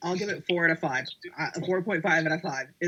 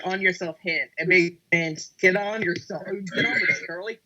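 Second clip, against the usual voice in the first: put-on Scottish accent. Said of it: "my Scottish accent isn't exactly that great".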